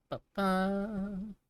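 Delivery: ordinary talk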